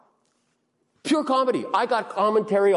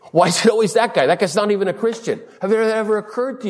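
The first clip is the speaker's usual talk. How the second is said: mock complaint; 6 semitones higher, 3 dB louder, faster than usual. Acts out grumble about coworker.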